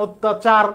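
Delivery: "অত্যাচার" as "ot-tachar", closed o; pause on t. Shown as a demonstration. Teacher showing where they stop, ot-tachar with closed o. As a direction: stop briefly on the first t of "অত্যাচার". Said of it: "থেমে যাইতেছি".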